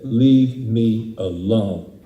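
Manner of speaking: slow, heavy, mildly defiant; defiant prayer. Retold or imitated. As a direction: drag out each word at God. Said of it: "I shook my fist at God".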